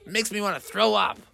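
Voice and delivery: high, pained, half-laughing groan; grossed out wail; disgusted mother. Acted. Mother Bear begs the family not to mention fungus, high and pained. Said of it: "And Mother was like".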